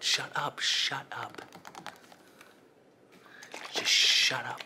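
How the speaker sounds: fed up, barking to silence the scream; exasperated shout. Acted. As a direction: shout it down, out of patience. Losing patience with screaming victim.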